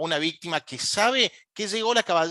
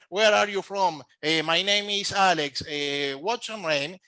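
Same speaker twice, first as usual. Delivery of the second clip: slow phonetic English; slower than usual. Shown as a demonstration. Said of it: "no es lo mismo que, eh, decir".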